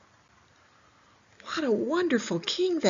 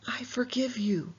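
gentle whisper; 3 semitones higher than usual. Acted. God's words voiced in story.

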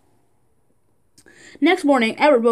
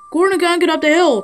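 urgent report; 5 semitones higher, 3 dB louder than usual. Acted. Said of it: "reported Colt".

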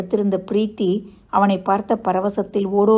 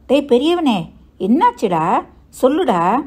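high, louder worried plea; alarmed urging; 5 semitones higher, 5 dB louder than usual. Acted. Mother pressing her silent son, alarmed urging. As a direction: press him anxiously, voice swooping up.

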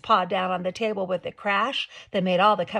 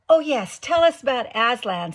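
much louder, higher excited cry; eager chorus; 5 semitones higher, 9 dB louder than usual. A narrator's reading. Children eagerly begging the beaver to tell of Aslan. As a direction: burst out together in hope. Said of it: "said several voices at once".

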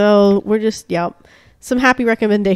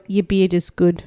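New Zealand accent; 4 semitones lower than usual. Shown as a demonstration. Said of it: "whenever I do New Zealand, I always go".

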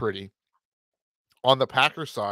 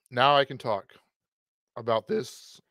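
unenthusiastic; 4 dB quieter than usual. Real, not acted. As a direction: introduce the matchup with little excitement. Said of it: "Don't sound so excited".

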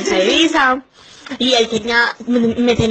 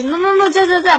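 rapid high "no, no, no, ya"; woman begs her lover to stop, squealing high; urgent high protest; 9 semitones higher, 3 dB louder than usual. Retold or imitated. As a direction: stop him right now. Urgently stopping him.

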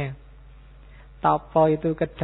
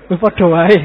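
blurted out loud in mock exasperation; loud punchline; 3 semitones higher, 13 dB louder than usual. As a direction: throw the punchline out big. Punchline, sama saja. (punchline lelucon diteriakkan keras)

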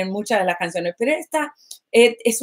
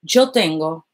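low, calm divine words; a hint of solemn divine voice; lightly voiced God; 6 semitones lower, slower than usual. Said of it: "Dios me dijo".

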